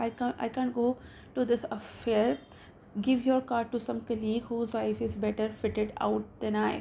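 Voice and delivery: slow, careful reading aloud of a story. A narrator's reading. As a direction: read each English word out slowly for the class. Reads the English story slowly.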